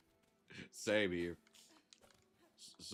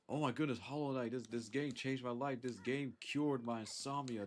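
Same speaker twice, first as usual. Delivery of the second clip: higher-pitched mock hype; imitated gushing fans; 7 semitones higher than usual. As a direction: gush like an overexcited fan.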